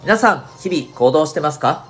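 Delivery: upbeat radio show opening; radio host intro. Acted.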